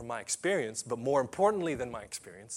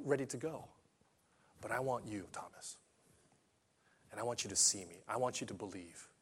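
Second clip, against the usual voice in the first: gentle Jesus. Acted. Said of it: "And he said".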